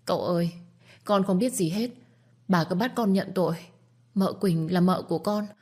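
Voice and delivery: high, pleading, close to tears; tearful pleading. Acted. Servant girl with red eyes begs the young master, tearful and high. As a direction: beg the master to believe you, voice climbing. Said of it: "đôi mắt đỏ hoe".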